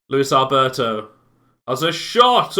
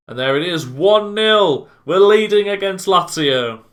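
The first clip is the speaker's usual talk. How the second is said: excited; 4 semitones higher, 3 dB louder than usual. Real, not acted. Celebrating the opening goal.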